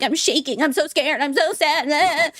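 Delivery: mock a tearful attendee, not real crying; mock blubbering. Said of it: "They turn into blubbering messes".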